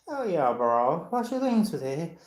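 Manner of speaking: lazy, trendy Starbucks-accent small talk. Shown as a demonstration. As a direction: imitate youngsters' Starbucks accent. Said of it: "we speak like this".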